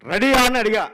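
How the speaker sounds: loud, high scolding question; mock angry director. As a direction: snap at the assistant.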